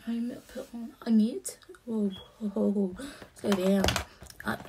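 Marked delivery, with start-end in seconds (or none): 1.8-3.0 put-on Australian accent. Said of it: "that was a really good, uh, Australian accent". 3.3-3.8 put-on loud, playful Australian accent on "Slow down"; mock Australian accent. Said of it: "that was a really good, uh, Australian accent".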